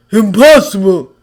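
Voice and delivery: loud shocked exclamation; shocked gasp. A narrator's reading. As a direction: gasp it in disbelief. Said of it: "Thor gasped".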